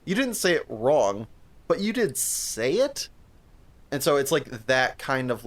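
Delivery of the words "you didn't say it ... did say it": knowing sarcastic reply. Retold or imitated. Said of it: "And you're like".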